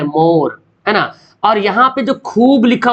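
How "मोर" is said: मोर lower, with a round "o". Shown as a demonstration. Teacher repeating the example, मोर with rounded "o". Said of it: "वाव को गोल घुमा रहे".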